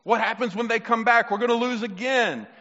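acted panic, pitched high; high, worried voice imitating panicked soldiers; mock freaking out. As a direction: play a rattled army fretting over defeat. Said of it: "the Israelites started freaking out".

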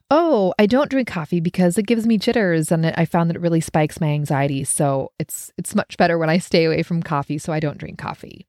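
calm, settled, matter-of-fact refusal; confident don't. Shown as a demonstration. Declining the coffee invite with calm confidence. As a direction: own the choice, no complaint. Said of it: "I'm putting these inflections in it".

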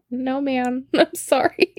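high, softening, giggly sorry; laughing apology. Retold or imitated. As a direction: apologise while failing to hold back laughter. Retold apology through laughter.

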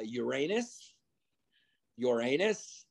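"Uranus" said like the planet, yur-AY-nus; mispronounced Uranus. Retold or imitated. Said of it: "you got, uh".

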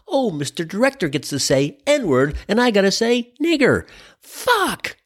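mock frustration ending in a yelp; frustrated actor. Actor grumbling after the director's chat, frustrated. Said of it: "the actor's gotta be thinking".

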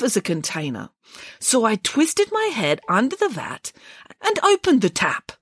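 Boris's high, sorrowful bear voice; tearful bear. Acted. Boris tells Nanny Piggins about the honey emporium. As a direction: tell it as a sad, dreamy bear.

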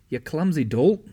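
loud, high scold. A narrator's reading. Hannah scolds the girl for spilling water: loud scolding. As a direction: snap at the clumsy girl. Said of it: "Hannah scolded".

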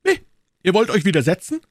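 high, incredulous cry; exclaiming. A narrator's reading. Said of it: "rief Jussac".

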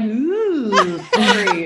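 high squeaky apology through laughter; laughing high sorry. Retold or imitated. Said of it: "And I'm like".

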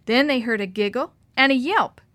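ordinary delivery

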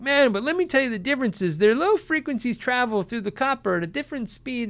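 mock a cable nerd lecturing; techie nerd. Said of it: "techie nerds are gonna be like".

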